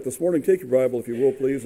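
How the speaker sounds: normal talking voice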